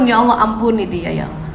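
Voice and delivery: soft plea fading to almost nothing; sincere prayer. Shown as a demonstration. Mother asking God to forgive, hushed and fading. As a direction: quietly ask forgiveness for him, trailing away. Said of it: "Mohonkan ampun".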